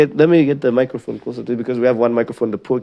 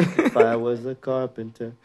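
poetic recitation; 5 dB quieter, slower than usual. Pretend. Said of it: "Imagine if a poem started with it".

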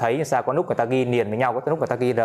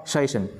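"Station" with the main stress on its first syllable, then falling. Shown as a demonstration. Teacher showing where the stronger stress falls, main stress. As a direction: hit "Sta" in "Station" and let the end drop. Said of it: "cái này nhấn cao hơn".

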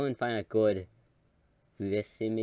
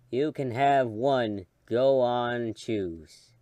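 put-on slow, weary old man voice; tired out voice; 4 dB louder, much slower than usual. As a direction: hand it over like a tired grandpa. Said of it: "I'm just doing my tired out voice".

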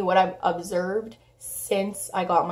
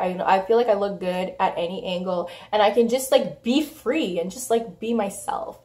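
hoarse voice. Real, not acted. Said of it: "Sorry if I sound like, um, like a deadly smoker".

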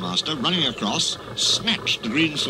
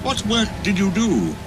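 kindly; 10 semitones higher than usual. Acted. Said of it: "asked Edward kindly".

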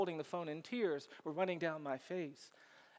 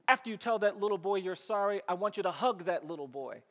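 a firm, louder motherly order; insistent mother; 3 dB louder than usual. Retold or imitated. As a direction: press the instruction home like a mom. Mother orders her son to apologize.

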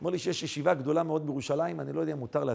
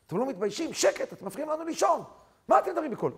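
mock scolding; 7 semitones higher, faster than usual. Retold woman scolds students talking at night, lightly acted scolding. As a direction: imitate an indignant neighbor telling them off.

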